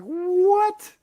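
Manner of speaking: very high, loud "What?"; stunned disbelief. Retold or imitated. Hearing people praise the comic, high stunned yelp. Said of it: "so I'm like".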